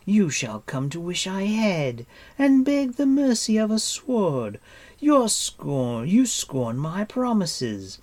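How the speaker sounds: high, loud, vengeful queen; imperious curse climbing in pitch and force; furious cry. A narrator's reading. Queen vowing her prisoner will beg for death, furious cry. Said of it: "cried Artwin".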